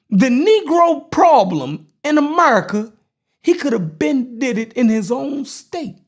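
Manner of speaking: emphatic oratory in deliberate, separated phrases; measured, forceful speechmaking; political speech delivery. Acted. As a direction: deliver it like a speech to a crowd, punching key words.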